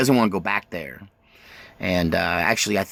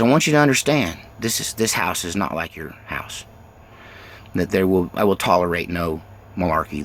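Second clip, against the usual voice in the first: stern Marine father; 4 semitones lower than usual. Retold or imitated. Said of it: "he goes".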